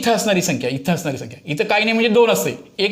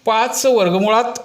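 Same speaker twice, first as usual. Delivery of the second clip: slow dictation; 3 semitones higher, slower than usual. Shown as a demonstration. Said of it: "हे असं आहे बरं का".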